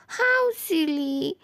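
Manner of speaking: very slow, tearful words; teary fondness. Acted. Sister giving in to her little brother, tearful. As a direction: let the tears catch in your throat. Sister melts at cute plea.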